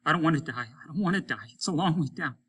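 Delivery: a terrified crewman begging to live; pleading fear. Acted. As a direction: beg not to die.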